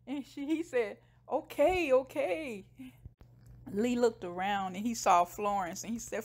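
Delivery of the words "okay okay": high-pitched, hurried-to-obey reply; mock-scared giving in; flustered placating. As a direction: act out a cowed man agreeing. Scared man placates yelling woman.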